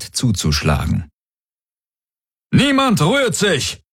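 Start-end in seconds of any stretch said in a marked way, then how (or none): 2.5-3.8 high, slow bark, stretched out; barked order. A narrator's reading. Commander barking into his comm, a sharp order. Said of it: "bellte Daraios".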